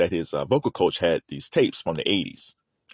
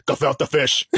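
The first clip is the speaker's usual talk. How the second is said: put-on light New York accent on "Gefilte fish"; 5 semitones higher, slower than usual. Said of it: "That's it. That's the voice".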